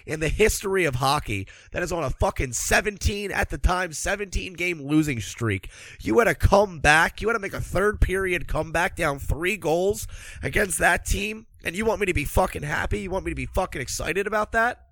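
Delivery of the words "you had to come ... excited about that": fired-up, louder indignant rant; angry rant. Real, not acted. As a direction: hammer the point home in disbelief. Ranting at fans about the comeback.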